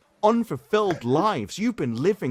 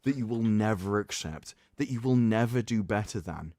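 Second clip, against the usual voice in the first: dramatic reading; 5 semitones lower than usual. Acted. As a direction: deliver it like a grave eulogy. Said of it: "That was a beautiful, dramatic reading".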